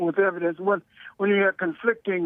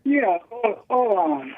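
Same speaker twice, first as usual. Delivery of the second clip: caller on a speakerphone line; distant speakerphone sound; 3 semitones higher, slower than usual. Real, not acted. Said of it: "You sound like you're on speakerphone".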